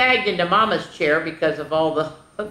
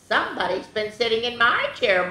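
mild, higher-pitched mock moan; 6 semitones higher than usual. Mama finding her chair used, mild moan. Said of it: "moaned Mama".

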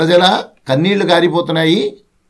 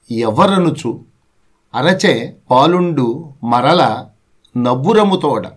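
poem recitation; slower than usual. Acted.

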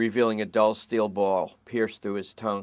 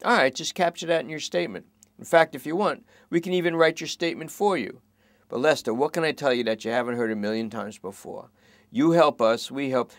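cop voice; 5 semitones higher, 4 dB louder than usual. Acted. Matty deals with suspect.

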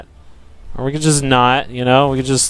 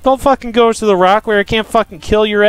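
scolding rant; 6 semitones higher than usual. Real, not acted. Scolding a fleeing bug.

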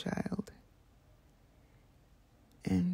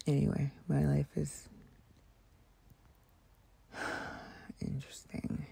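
whisper; 4 dB quieter than usual. Real, not acted. ASMR whisper.

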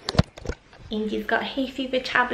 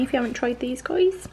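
put-on Bristolian accent; 2 semitones higher than usual. Recommending sausages to viewers, light Bristolian accent. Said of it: "went into a, um, Bristolian accent".

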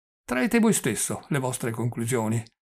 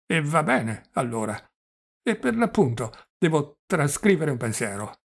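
put-on doddering old prince; 3 semitones higher than usual. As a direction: play the flustered old prince, pitched up. Old prince voiced in reading.

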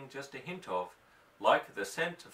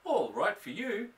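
sulky cat; 6 semitones higher than usual. Acted.

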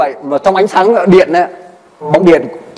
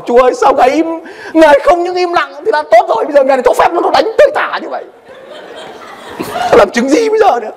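mock lament; 13 semitones higher than usual. His own complaint to God.

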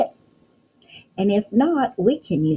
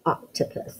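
whispered answer; 7 dB quieter than usual. Shown as a demonstration. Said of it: "do you know what this is".

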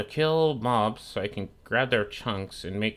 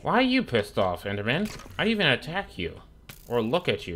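indignant protest; 4 semitones higher than usual. Real, not acted. Protesting at an angry Enderman.

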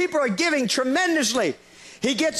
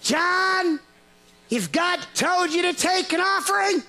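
dry permission; 5 semitones higher, slower than usual. Retold or imitated. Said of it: "leaned over ... and said".

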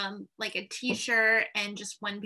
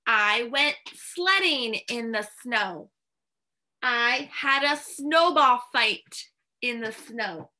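slow model sentences; slower than usual. Shown as a demonstration. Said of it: "If your teacher asks you".

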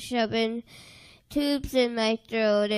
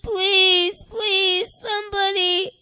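tearful begging; 5 semitones higher than usual. Retold or imitated. Begging in dark tunnel.

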